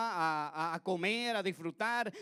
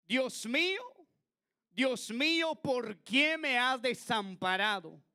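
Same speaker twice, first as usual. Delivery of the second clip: raised, anguished cry; crying out to God; 6 semitones higher, 3 dB louder than usual. Acted. Clamor de Jesús citado. (clamor angustiado de Jesús)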